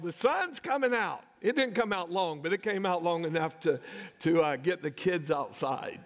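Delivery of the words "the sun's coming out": high-pitched imitation of someone calling out; mock an excited yell without much volume; retold yell. Someone announcing a break in the storm, imitated yell. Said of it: "somebody yelled".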